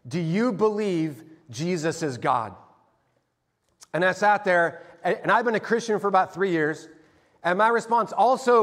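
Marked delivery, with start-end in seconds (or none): 0.1-2.5 a hint of a flat deadpan stranger, slow; stern stranger. Brown belt stranger to beginner, lightly voiced deadpan question. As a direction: ask it dead serious. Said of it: "iron straight face flint".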